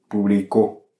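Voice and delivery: publico with the final CO stressed; stress on last syllable. Shown as a demonstration. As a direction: land hard on the end of publico, pu-bli-CÓ. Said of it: "selon la place de l'accent".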